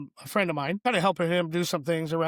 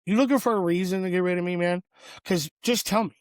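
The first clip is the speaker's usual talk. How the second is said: frustrated challenge; faster than usual. Retold or imitated. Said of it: "And I was pretty frustrated".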